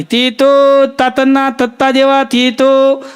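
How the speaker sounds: slow, drawn-out chikoo seller's cry with a lisp; lisping vendor call. Retold or imitated. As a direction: hawk the fruit slowly, tongue-tied. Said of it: "એમ અવાજ મારે".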